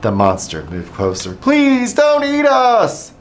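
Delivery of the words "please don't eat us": very high, slow, loud pleading; terrified plea. A narrator's reading. Dogs begging the monster, terrified wail. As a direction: beg for your lives. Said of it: "cried the dogs".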